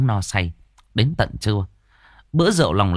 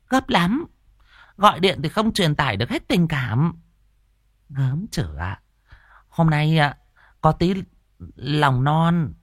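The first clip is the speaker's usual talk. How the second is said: higher, coy woman's voice; flirty woman; 5 semitones higher than usual. Acted. Hòa luring Tam over with tripe, flirting. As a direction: flirt and tempt him with tripe.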